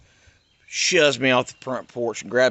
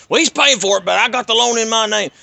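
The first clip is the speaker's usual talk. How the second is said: high, louder whiny father voice; mocking his dad; 9 semitones higher, 7 dB louder than usual. Dad answers the cop.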